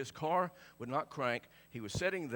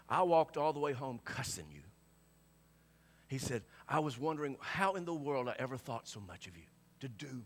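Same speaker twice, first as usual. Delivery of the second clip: tearful Billy; 3 semitones lower than usual. Retold or imitated. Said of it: "he's crying".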